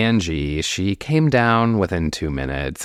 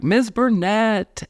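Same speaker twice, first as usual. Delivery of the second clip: very high, drawn-out greeting; mock yell back; slower than usual. Visitor answering Carol's greeting, mock yell back. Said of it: "To which I yelled back".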